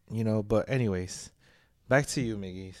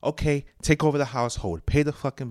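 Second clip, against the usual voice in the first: heated challenge; 3 semitones higher, 4 dB louder than usual. Real, not acted. Heated rant about paying bills.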